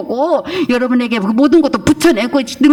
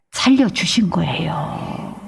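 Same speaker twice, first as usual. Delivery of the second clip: slow whispered emphasis; hushed, slow sermon point; 6 semitones lower, 5 dB quieter, much slower than usual. Real, not acted. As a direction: drop to a whisper, very slowly. Sermon climax, softened.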